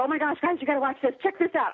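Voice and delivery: rally your friends to watch the show; gleeful gods. Retold or imitated. Gods call each other to watch her struggle, gleefully. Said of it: "and then they go".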